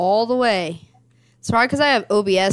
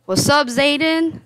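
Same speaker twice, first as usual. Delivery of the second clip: hyped gamer bro; 7 semitones higher, 4 dB louder than usual. Real, not acted. Greeting friend on stream.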